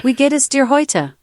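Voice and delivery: sample greeting with a German accent. Shown as a demonstration. Assistant giving the host accent samples, German accent. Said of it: "German accent".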